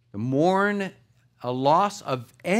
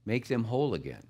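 softer, bargaining with God; pleading prayer; 5 semitones lower, 6 dB quieter than usual. Retold or imitated. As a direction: plead quietly, almost under the breath. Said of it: "you kinda start bargaining".

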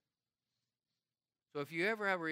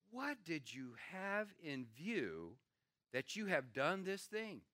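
ticked off; slower than usual. Retold or imitated. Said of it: "he's ticked off".

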